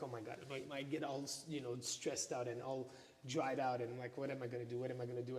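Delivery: nervous mutter. Retold or imitated. Retelling panic before talk.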